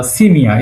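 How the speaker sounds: "সিমিয়া" with "সি" as see; pronunciation demo. Shown as a demonstration. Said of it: "এভাবে উচ্চারণটা হবে".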